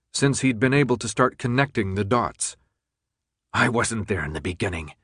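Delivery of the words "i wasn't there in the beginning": low, even and controlled; level voice. Acted. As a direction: keep it calm and flat-toned. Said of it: "Jansen said in a level voice".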